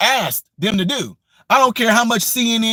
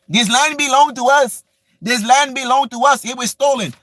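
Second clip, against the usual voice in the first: higher, sneering mock of a protester; 3 semitones higher than usual. Ranting vlogger mimics land-stolen protesters, higher sneering mock voice. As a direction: ham up their complaint to ridicule it.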